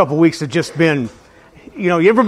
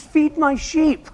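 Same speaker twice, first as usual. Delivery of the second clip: 1 God's voice; 8 semitones higher, 5 dB quieter, slower than usual. Retold or imitated. God's answer again.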